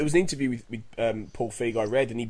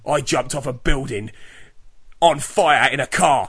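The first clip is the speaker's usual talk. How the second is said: slow, louder tough-guy brag; hammed-up action-hero boast; imitating an action hero's boast; macho boast; 4 dB louder than usual. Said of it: "And he's like".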